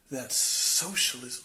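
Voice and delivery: slow, drawn-out disgust. Retold or imitated. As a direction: imitate a guide recoiling at the word. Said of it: "the guide looks extremely disgusted".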